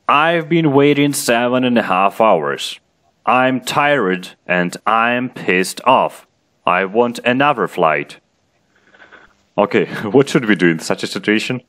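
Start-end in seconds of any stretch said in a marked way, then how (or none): 0.1-8.2 higher-pitched storybook complaint, mildly angry; mild mock yell. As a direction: read it as a teacher acting a light yell at the agent. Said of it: "You yell at the agent".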